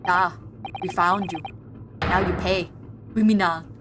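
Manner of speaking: put-on low-pitched Schwarzenegger accent. Streamer voicing a game line, mock Schwarzenegger accent. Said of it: "I'll do a Schwarzenegger accent".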